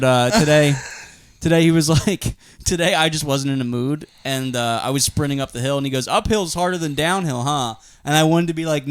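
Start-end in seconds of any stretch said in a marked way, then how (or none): 6.1-7.8 cheerful dad quip, barely put on. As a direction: neighbor dad teasing a sprinter, lightly voiced. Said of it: "dad lines at me".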